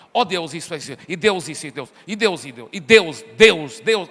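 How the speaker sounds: low droning repeats of Deus mocking a believer; mock repetitive prayer. Preacher mocking a believer who repeats Deus in prayer, low droning. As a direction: parody a mumbling pray-er chanting Deus. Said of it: "Ele fala assim".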